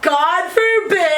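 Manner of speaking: drawn-out indignant whine; mock outrage. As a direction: play offended, stretch it.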